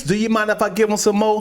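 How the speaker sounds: high-pitched, lively delivery; peppy podcast closer; upbeat outro line. Acted. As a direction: toss it out brightly as a show catchphrase. First, non-sexy take of outro line.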